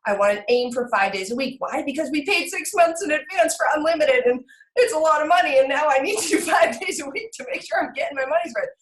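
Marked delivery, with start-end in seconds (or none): 1.9-8.7 worked-up justifying. Real, not acted. Mother venting about the karate money, worked-up. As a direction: justify it with a raised, insistent voice.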